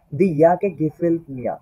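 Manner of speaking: slow, careful reading of "দি ইয়াকে গেফেল্ট মিয়া", each word set apart; slow model reading. Shown as a demonstration. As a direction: read "দি ইয়াকে গেফেল্ট মিয়া" slowly for learners to copy. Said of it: "এগারো নম্বরে কি বলতেছে?".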